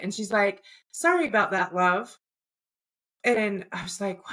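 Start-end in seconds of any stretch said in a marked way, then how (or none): 0.9-2.2 lightly imitated British woman; a hint of British accent, casually apologetic. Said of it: "had a British accent".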